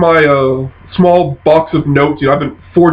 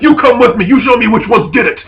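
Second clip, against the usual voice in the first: mildly angry ogre, pitched up; enraged ogre; 6 semitones higher than usual. Acted. Ogre grabs Londo's arm, enraged. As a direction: order him along with acted ogre anger. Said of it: "enraged and starts charging up there".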